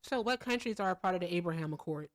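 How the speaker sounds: talking around a lollipop. Real, not acted. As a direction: mouth full. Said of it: "I have a lollipop in my mouth".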